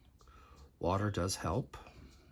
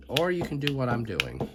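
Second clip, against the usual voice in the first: on a bumpy road; 4 semitones higher, 4 dB louder than usual. Real, not acted. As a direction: voice jostled by bumps. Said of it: "Sorry for the turbulence".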